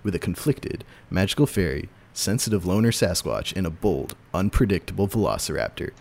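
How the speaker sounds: movie trailer voice. Shown as a demonstration. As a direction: read it like a movie trailer announcer. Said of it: "I do a movie theater trailer voice".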